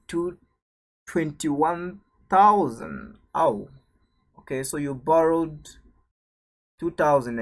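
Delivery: loud, drawn-out disbelief; surprised. Real, not acted. Tutor reads out a startling bank payment, surprised. Reacts to unexpectedly large payment result.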